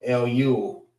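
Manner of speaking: "El Yule" as two separate words, el then yule; pronunciation demo. Shown as a demonstration. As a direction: model "El Yule" clearly, Yule falling. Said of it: "that's how you say it".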